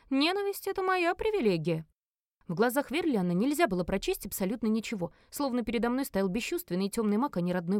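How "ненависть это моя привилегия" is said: high-pitched, smug taunt; mocking. Brother answers his sister's hatred, mocking. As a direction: lord it over her in a raised voice. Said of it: "сказал он насмешливо".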